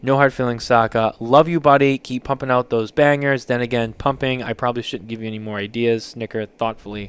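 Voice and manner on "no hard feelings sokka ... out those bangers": louder, affectionate send-off; a buddy's warm wrap-up; warm sign-off. Shown as a demonstration. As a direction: bring it back around with love. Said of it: "this is where you have to bring it back around".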